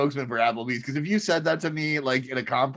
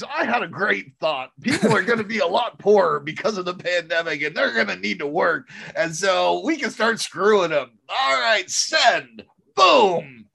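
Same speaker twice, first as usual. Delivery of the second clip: scheming boss; 4 semitones higher than usual. Pretend. Mock corporate boss scheming.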